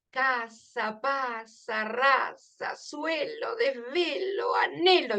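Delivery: a list of rhyming words read out for the ear; rhyme recital. Shown as a demonstration. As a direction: let each rhyme ring out. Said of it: "el oído ya presta atención". (lista de rimas recitada para el oído)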